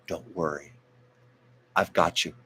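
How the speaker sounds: put-on gently calm a frightened older singer; tender reassurance. A singer reassuring an older singer on stage, tender and hushed. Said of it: "how tender the singer was".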